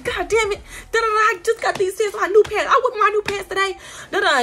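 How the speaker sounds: high mock country-lady fretting; white woman's country accent. Retelling nail lady cursing over new pants, high country accent. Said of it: "white women country accent".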